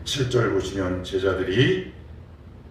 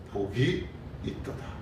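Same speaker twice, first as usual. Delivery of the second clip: soft, unvoiced blessing; hushed quote; 9 dB quieter than usual. Preacher softly quoting Jesus's blessing, barely voiced. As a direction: breathe the blessing out slowly.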